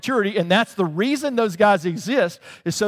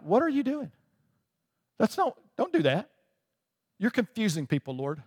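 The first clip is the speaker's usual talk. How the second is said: mock protest to God; 3 semitones higher, 5 dB quieter than usual. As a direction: plead with God in comic disbelief. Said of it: "I would tell God".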